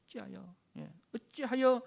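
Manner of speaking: indignant, slow complaint against God; grumbling people in the wilderness; complaining Israelites. Retold or imitated. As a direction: hurl the grievance at Moses.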